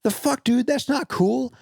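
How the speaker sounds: a hammed-up sense of betrayal; mock betrayed fury. Player scolding the traitor ghouls in mock outrage. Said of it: "I was like".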